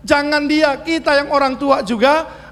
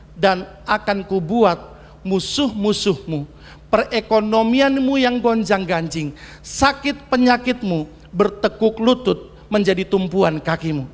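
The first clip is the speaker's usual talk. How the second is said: God's promise; 4 semitones lower than usual. Acted. God promising the listeners, low and hushed. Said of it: "quoting God".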